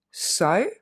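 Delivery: Sociable broken into syllables; split into syllables. Shown as a demonstration. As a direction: chop sociable apart. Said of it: "on va le découper". (Sociable découpé en syllabes)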